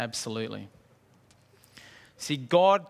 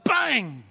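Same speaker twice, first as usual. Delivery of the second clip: higher-pitched exclaimed bang; sudden bang; 6 semitones higher, 3 dB louder than usual. Pretend. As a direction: burst out with a bang. Acting out a sudden vision.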